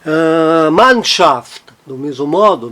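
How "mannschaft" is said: "Mannschaft" with a strong MANN, weak schaft; stress on MANN. Shown as a demonstration. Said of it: "não está no Schaft".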